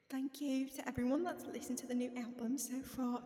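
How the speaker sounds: put-on amateur British accent. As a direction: read it out in your own attempt at British. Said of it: "this is my British accent".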